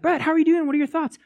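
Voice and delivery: high, eager questioning voice; curious friend. Retold or imitated. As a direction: pester him for his thoughts. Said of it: "And you're like".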